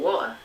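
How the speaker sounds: "water" with the T dropped, northern British; imitated northern British "water" without its T. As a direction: swallow the T in "water", no final R. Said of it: "we'll drop that".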